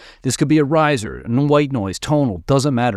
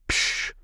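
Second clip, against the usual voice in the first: crash cymbal imitation; 7 dB quieter than usual. Shown as a demonstration. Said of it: "accent would be like a crash".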